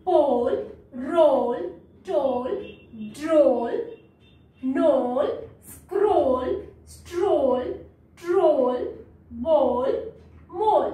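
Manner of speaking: each word from "पोल" to "मोल" with a drawn-out O; stretched O in "पोल" through "मोल", pausing after each; long O. Shown as a demonstration. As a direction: read "पोल", "रोल", "टोल" as a list with long O. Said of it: "long sound देता है".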